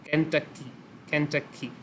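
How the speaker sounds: "केंटकी" in balanced syllables, like a beat to match; syllable rhythm demo. Shown as a demonstration. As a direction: say "केंटकी" twice as an evenly measured rhythm, pausing between. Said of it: "इसके syllables के against". ("केंटकी" को syllables की लय में बोलें)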